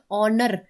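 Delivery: ऑनर said with no h sound; silent h in ऑनर. Shown as a demonstration. Teacher shows how the word is read, ऑनर with silent h. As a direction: start ऑनर straight on the vowel. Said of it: "word को हम पढ़ते हैं".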